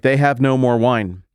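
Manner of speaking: flat announcement dropped on someone; passive-aggressive mother's hint; announcing, passive-aggressive. Shown as a demonstration. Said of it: "So that's one way to read it".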